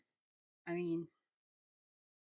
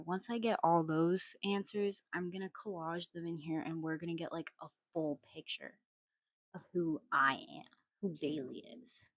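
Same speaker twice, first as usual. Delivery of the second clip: chewing gum; 14 dB quieter than usual. Real, not acted. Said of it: "I'm really sorry about the gum chewing".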